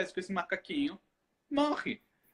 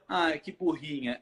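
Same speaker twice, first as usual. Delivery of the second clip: slow, lower, softened diminutive; gentle, drawn-out demo of affection; affectionate teasing; 4 semitones lower, slower than usual. Shown as a demonstration. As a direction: say it as a fond little tease. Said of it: "pega muito a entonação e o sentimento".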